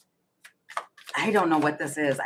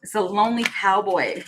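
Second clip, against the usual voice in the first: amused giggle. Real, not acted. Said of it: "I'm laughing because".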